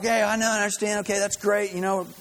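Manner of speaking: acting out an irritated phone call; frustrated. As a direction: brush off the caller, mildly exasperated. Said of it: "he's frustrated and he's kinda angry".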